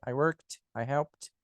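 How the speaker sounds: "worked" and "helped" said casually with a light T; lightly touch the T in "worked" and "helped"; subtle final T. Shown as a demonstration. Teacher showing real-life usage, subtle T on "worked" and "helped". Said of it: "na hora ele é bem sutil".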